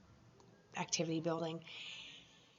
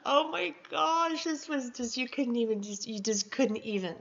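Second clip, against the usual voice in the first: overwhelmed exclamation; 5 semitones higher, 5 dB louder than usual. Retold or imitated. Overwhelmed by Joanne's champagne.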